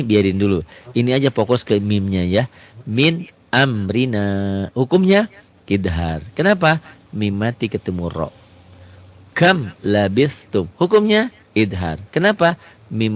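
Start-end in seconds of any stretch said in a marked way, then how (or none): 2.9-4.7 slow, melodic tajwid chanting; chanted Quranic reading; Quran recitation. Shown as a demonstration. Recites example. 9.3-10.7 Quran recitation. Shown as a demonstration. Recites example.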